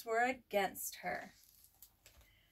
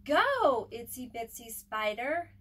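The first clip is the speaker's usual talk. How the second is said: cheering shout; 5 dB louder than usual. Acted. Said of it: "Pete and his friends shouted".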